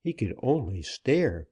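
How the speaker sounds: plain reading voice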